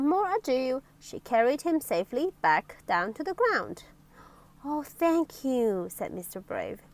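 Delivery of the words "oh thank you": slow, relieved thanks; sigh of relief. Acted. Mister Brave thanking his rescuer on the ground, sigh of relief. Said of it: "with a sigh of relief".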